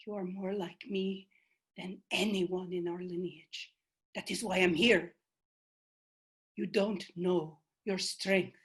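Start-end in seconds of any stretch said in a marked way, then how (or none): 0.0-5.1 much softer, intimate telling; tender. Acted. The ancestor telling Selena they are alike, softly. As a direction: confide it gently.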